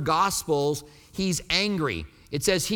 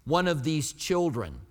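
slow emphatic paraphrase; much slower than usual. Retold or imitated. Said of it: "He said".

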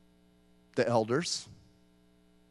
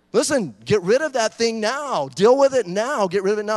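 stern warning; 4 semitones higher, 8 dB louder than usual. Acted. Preacher voicing God's warning.

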